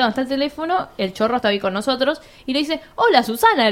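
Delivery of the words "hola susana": the story's thief greets Susana by name, mock friendly; thief's greeting. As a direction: lightly voice the intruder greeting her. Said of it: "le dice el chabón".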